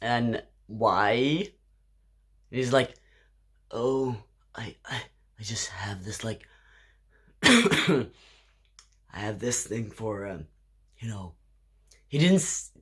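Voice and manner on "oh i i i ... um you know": a sheepish guy barely getting the words out; embarrassed mumbled confession. Retold or imitated. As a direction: drop to a near whisper, trailing off shyly. Stranger's confession, quoted.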